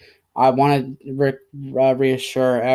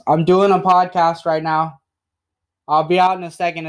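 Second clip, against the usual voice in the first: raised voice, higher and louder, fast at the end; calling out; 4 semitones higher, 4 dB louder than usual. Real, not acted. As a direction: call through the door to dad. Calling out to his father.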